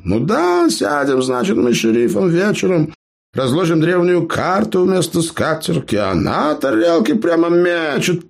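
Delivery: high, bragging storyteller voice; boastful gnome. Acted. Gnome brags to clanmates, high boastful voice. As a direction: brag to the wide-eyed listeners. Eber tells his tale.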